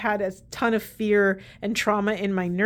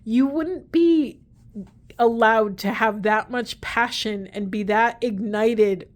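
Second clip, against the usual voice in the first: emotional, near tears; 3 dB louder, slower than usual. Real, not acted. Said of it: "Oh, I just got very emotional".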